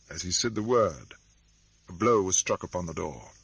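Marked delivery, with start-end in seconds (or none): none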